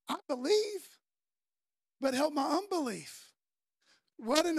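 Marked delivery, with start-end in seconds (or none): 0.1-3.3 raised, earnest acted plea; father's mildly desperate appeal; crying out. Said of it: "And he's crying out".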